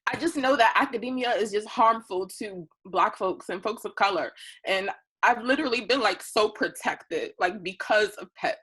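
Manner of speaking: speaking through tears; crying. Real, not acted. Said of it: "I'm gonna cry".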